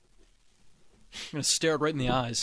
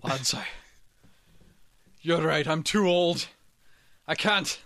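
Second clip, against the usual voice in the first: generic Scottish voice; slower than usual. Acted. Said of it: "it's my generic Scottish voice".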